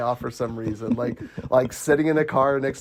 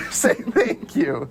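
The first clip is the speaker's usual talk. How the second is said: slow, higher, voiced mock prompting; drawn-out prompt; 5 semitones higher, much slower than usual. Repeating the movie's prompt to say thanks, slow and voiced. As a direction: stretch each word out aloud.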